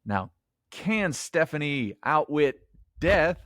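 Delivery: bad New England accent, slow; hammy New England accent. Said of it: "my really bad New England accent".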